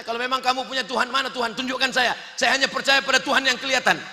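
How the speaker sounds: fast, insistent demand; quick acted taunt; challenging questioner. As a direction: rattle off a challenge.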